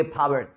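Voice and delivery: "पावर" begun with a puff, "phaawer"; aspirated P. Shown as a demonstration. Teacher quizzing students, "पावर" with aspirated p. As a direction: let breath out on the p of "पावर". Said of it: "पी को क्या pronounce करोगे".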